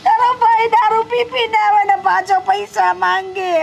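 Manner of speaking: speaking through tears, voice catching; mother weeping over her drunk son, crying; tearful complaint. Acted. Telling her daughter about the son, tearful.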